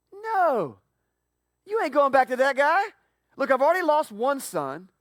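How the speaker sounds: put-on a stubborn old dad shouting no; father's angry refusal. Father refuses to send sons.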